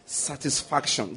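Satisfaction said slowly and softly, falling; a quiet slow answer to the call; slow drawn-out answer. Shown as a demonstration. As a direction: draw out Satisfaction, syllable by syllable. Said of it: "That word there is what?".

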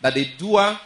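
"doer" pitched high; emphasis on doer. Real, not acted. Preacher making a point to the congregation, emphasis on "doer". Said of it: "I try to emphasize something".

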